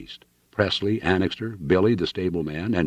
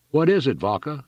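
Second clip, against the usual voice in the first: higher-pitched called question; urgent cry; 8 semitones higher than usual. A narrator's reading. Calling to young Vaca at the window, urgent cry. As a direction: cry out to know what's happening. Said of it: "he cried".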